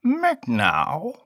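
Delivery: high mewing cat voice. Acted. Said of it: "the cat cried".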